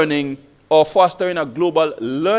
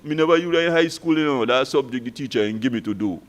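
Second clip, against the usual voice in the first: softly voiced student in local Kitishan twang; 5 semitones lower, 4 dB quieter than usual. Student explaining to the teacher what school never taught, in Kitishan twang. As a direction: imitate a pupil's Kitishan twang, kept quiet. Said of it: "in his local Kitishan twang".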